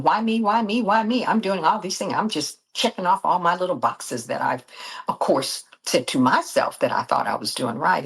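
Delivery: lekko podniesiony głos, żalący się pytania do Boga; wyrzuć to z siebie z pretensją, wyżej niż zwykle; upset pleading. Retold or imitated. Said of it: "I'm upset with God".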